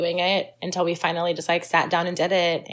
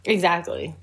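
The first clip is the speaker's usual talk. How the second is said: whispered; 3 semitones lower than usual. Real, not acted. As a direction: whisper it back under your breath. Echoing friend's whispered aside.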